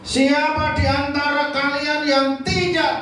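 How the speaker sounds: solemn Jesus. Acted. Jesus voiced, solemn challenge.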